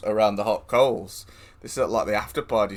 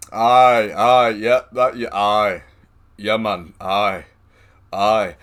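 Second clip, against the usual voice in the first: mock agreeing; 8 dB louder, much slower than usual. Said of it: "was literally to just go".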